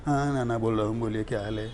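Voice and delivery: low, soft Nana Patekar growl. Retold or imitated. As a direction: speak as Nana, low and hushed. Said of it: "Nana Patekar में हिंदी में बात कर रहा हूँ".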